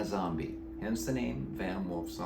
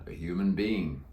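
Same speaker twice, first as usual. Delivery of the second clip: deep croaky voice; 2 semitones lower than usual. Acted. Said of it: "He answered in a deep, croaky voice".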